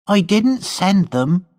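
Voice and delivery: defiant high servant voice; Gwenny's voice. A narrator's reading.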